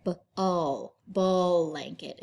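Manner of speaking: B-all, then blanket said as ball-anket; vowel inserted in blend. Shown as a demonstration. Teacher showing the mistake people make, split-up blanket. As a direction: blanket broken by a long vowel after b. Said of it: "sounds like there's a vowel in there".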